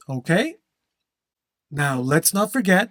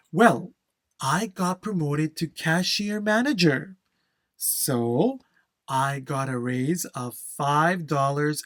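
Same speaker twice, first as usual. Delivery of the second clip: model answer demo. Shown as a demonstration. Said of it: "That is the way that we want to speak with flow and intonation".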